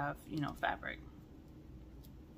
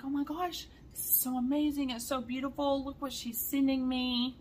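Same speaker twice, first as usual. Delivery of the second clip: higher, breathless gushing; 6 semitones higher than usual. Retold or imitated. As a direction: show off the gift to your mom. Retelling gushing text to mom.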